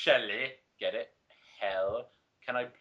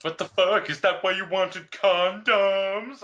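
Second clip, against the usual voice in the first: sadistic ask; 5 semitones higher, 8 dB louder, slower than usual. Retold or imitated. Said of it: "I asked sadistically".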